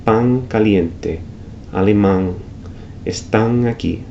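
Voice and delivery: pan, alemán, están all ending in ng; slow pang caliente with back nasal; velarized n. Shown as a demonstration. Teacher drilling the velar final n. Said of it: "intensified nasalization of that final N".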